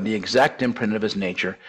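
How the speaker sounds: ordinary talk, nothing marked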